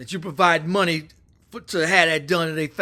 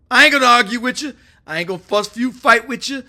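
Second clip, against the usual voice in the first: tough dismissal; 4 semitones higher, 6 dB louder, faster than usual. Retold or imitated. Acting Trump's tough refusal to argue.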